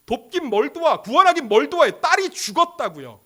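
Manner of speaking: loud, high, agitated outcry; acted grieving indignation; bitter protest. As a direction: throw the words out in anguished disbelief. Acts out bereaved family rejecting help.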